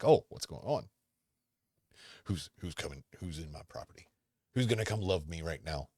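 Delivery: playing the dog as it frets about delivery people; voicing the dog. Dog owner voices his dog's thoughts, lightly put-on.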